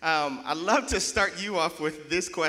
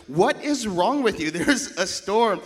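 loud, raised-pitch incredulity; mock disbelief; 3 semitones higher, 6 dB louder than usual. People on the boat to the fired-up speaker, mock disbelief. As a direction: imitate a baffled, alarmed fellow passenger. Retelling boat passengers' alarmed reaction.

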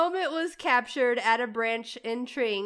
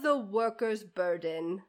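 put-on British accent; 6 semitones lower, 6 dB quieter than usual. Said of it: "How's my accent?".

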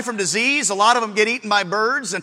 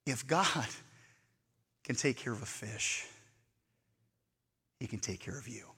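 hushed sermon aside; 12 semitones lower, 20 dB quieter than usual. Acted. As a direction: lean in and hush the congregation. Hushed preaching drop.

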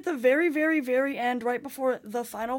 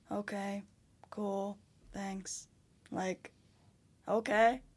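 dry, much softer mock reply; sarcastic under-the-breath thanks; unimpressed; 5 dB quieter, slower than usual. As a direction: brush off the fans quietly. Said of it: "And I'm like".

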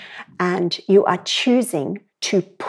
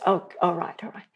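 hushed friend; 4 dB quieter, faster than usual. Retold or imitated. Friend's reply voiced in story.

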